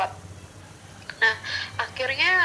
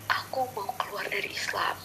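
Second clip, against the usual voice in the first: soft, hesitant retold confession; hushed confession; 2 semitones lower, 5 dB quieter than usual. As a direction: confess it quietly, almost under the breath. Retelling hard confession to father.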